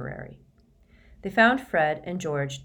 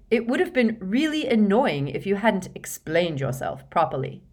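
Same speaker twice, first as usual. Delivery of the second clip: louder, higher, exasperated sarcasm; sarcastic; 4 semitones higher, 4 dB louder than usual. A narrator's reading. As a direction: needle her with heavy irony. Ron's sarcastic jab at Hermione.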